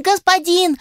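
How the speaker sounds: very high squeaky spider call; squeaky shout. A narrator's reading. The little spider calls its master over the noise. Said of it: "паучок пытался всех перекричать".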